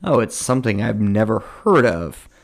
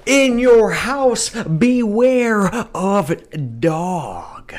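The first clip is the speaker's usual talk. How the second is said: slow, hushed, much higher announcer-style title read; dramatic title read; 8 semitones higher, much slower than usual. Pretend. Host echoing the event name to co-host, hushed dramatic trailer read.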